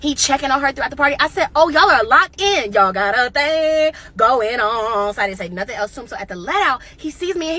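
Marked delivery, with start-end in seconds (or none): 1.6-5.1 slow, drawn-out knowing remark; sarcastic slow realization; knowing sarcasm. Retold or imitated. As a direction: drag it out like you caught them.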